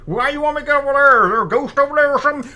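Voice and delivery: a squeaky, fast panicky reply over the radio; nervous buddy. Acted. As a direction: rattle off the worried question. Reply over walkie-talkie.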